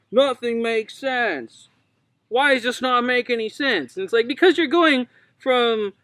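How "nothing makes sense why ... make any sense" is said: high, slowed mock outrage; mock confused outrage. George fuming at the rough cut, high and indignant. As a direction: whine it high like a baffled director. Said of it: "He's like".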